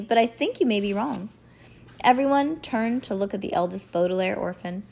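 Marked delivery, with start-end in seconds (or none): none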